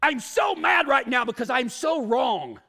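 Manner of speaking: loud, hammed-up mad outburst; mock angry. Preacher mimicking someone who has gotten mad, mock angry shout. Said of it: "anybody's ever gotten mad and go".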